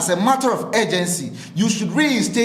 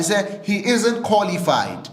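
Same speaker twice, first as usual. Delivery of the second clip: slow, each word weighed: "isn't" pressed hard; emphatic; slower than usual. Real, not acted. Commentator telling listeners firmly, slow emphatic delivery. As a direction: lay it down slowly and firmly. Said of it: "we can say it emphatically".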